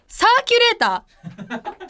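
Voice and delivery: slow rising puzzled read of サーキュレーター; puzzled drawl. Real, not acted. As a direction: stretch out サーキュレーター with a rising, baffled tune. Reading unfamiliar theme card. (戸惑いながらゆっくり読み上げる)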